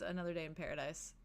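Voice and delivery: muttered low and soft; under his breath. Acted. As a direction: mutter it dryly to yourself. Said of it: "he does under his breath".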